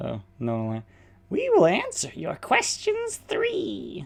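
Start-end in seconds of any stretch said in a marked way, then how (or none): 1.3-4.1 high-pitched mad voice, higher still. Trying out lines for the fate Nona: high-pitched mad Nona voice. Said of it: "Nona, surprisingly high-pitched".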